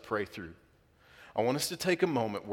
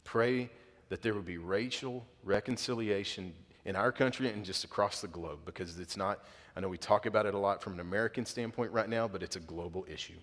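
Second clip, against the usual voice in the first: subdued, softer prayer prompting; leading prayer; 3 semitones lower, 5 dB quieter than usual. Real, not acted. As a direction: guide the congregation gently into prayer.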